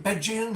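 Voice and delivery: Belgian read as "BEDGE-ee-un", no L; misspelt pronunciation. Real, not acted. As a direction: leave the L out of Belgian, three syllables. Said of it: "get the, the spelling wrong".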